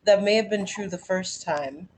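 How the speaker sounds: measured spoken-word poem delivery; poem reading. Acted. Reading her poem Pulling Skin to the group, in a measured spoken-word delivery.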